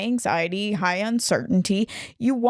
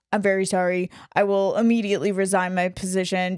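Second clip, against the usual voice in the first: flat, emotionless apology; deadpan robotic monotone; faster than usual. Retold or imitated. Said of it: "just in the most monotone voice".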